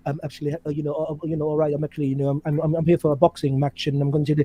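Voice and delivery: soft, halting fighter's mumble; Lennox Lewis. Acted. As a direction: hesitate quietly through filler words, like a dull interviewee. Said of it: "Lennox Lewis was like".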